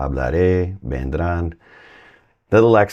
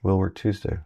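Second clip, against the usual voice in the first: a touch of annoyance, quieter; half-annoyed "will work Tuesday"; mildly annoyed; 5 dB quieter than usual. Shown as a demonstration. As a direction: grumble it softly, "will" stressed. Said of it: "A little annoyed about working Tuesday?".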